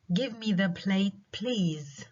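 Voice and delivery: slow request with a rising end. Shown as a demonstration. Teacher demonstrating a request to students, rising and slow. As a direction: ask it as a polite rising request. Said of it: "مثال تاني على جمل بيكون فيها rising tone".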